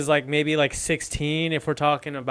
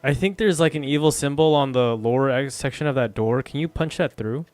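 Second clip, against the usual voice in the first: loud call; 6 dB louder than usual. Acted. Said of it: "I say to Elandril".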